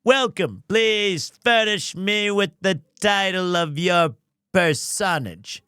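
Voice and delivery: lightly voiced pompous captain; a hint of a self-important hero; Zach Brannigan. Streamer tries a light pompous captain voice for Mister White. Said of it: "More like Zach Brannigan".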